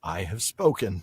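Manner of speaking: a hint of the Kuiil line, slow and low; low, final, drawn out; lightly voiced Mandalorian elder; Mandalorian impression. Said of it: "the guy from The Mandalorian".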